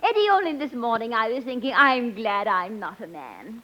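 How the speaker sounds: a hint of a fluttery, giddy society lady; scatterbrained lady. The speaker gushes to Eddie, lightly voiced giddy lady. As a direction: play it dizzy and delighted. Billie Burke's scatterbrained persona.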